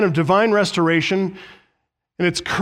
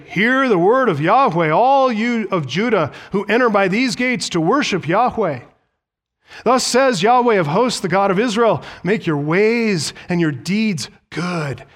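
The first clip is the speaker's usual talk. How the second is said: raised, ringing proclamation; calling out; 3 semitones higher than usual. Retold or imitated. Preacher voices God's word to Judah at the gate, calling out. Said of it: "you shall call out there this word".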